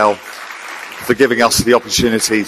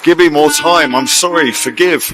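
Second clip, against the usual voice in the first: spoken-word poem, a little raised and lively; poem recitation. Acted. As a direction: perform it as a spoken-word piece on stage. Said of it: "A poem".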